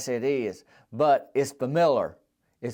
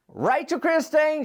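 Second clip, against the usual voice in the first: high, slow, lightly sung name; name call; 12 semitones higher than usual. Acted. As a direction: lift the name up fondly. Fond name of favorite doll.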